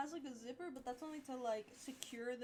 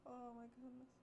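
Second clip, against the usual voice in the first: whispered, softer reassurance; 3 semitones higher, 11 dB quieter, faster than usual. Real, not acted. Streamer soothing herself after misreading chat, whispered. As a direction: breathe it out to calm yourself.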